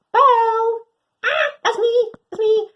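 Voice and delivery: high, loud, thrilled cry; dog hearing her name, overjoyed; excited yelp. Acted. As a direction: leap up hearing your name. Dog hears her name called.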